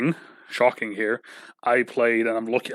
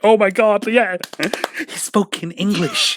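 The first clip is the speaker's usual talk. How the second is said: higher and louder, breathless with a laugh; mock excited kids; 9 semitones higher, 5 dB louder, slower than usual. Mocking the kids who were amazed he spoke English, excited and much higher. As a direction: gush like thrilled schoolkids. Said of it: "and they were like".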